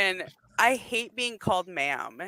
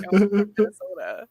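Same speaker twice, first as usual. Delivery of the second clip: retold protest. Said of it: "I was like".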